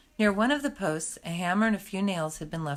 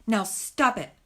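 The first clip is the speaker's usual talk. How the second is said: firm; 3 semitones higher, 4 dB louder, slower than usual. Acted. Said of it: "said Hazel firmly".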